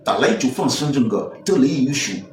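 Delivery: put-on Chinese babble; mock Chinese. Man defending his supposed Chinese, mock Chinese babble. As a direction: imitate Chinese with confident nonsense syllables. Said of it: "c'est quel chinois tu parles".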